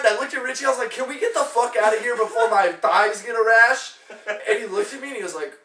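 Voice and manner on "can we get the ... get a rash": high, loud retold rant; mad complaint. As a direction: demand to leave, fed up. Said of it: "I got so mad".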